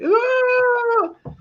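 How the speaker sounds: sudden high yelp, can't hear yourself; headphone shout. Shown as a demonstration. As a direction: blurt out a high "Ah!". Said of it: "ever talk with headphones on, you're like".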